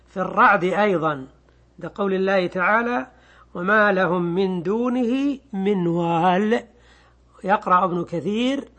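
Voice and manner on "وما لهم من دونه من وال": slow, measured verse recitation; Quranic recitation. Shown as a demonstration. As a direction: recite it slowly and evenly. تلاوة آية من الرعد. (تلاوة متأنية للآية)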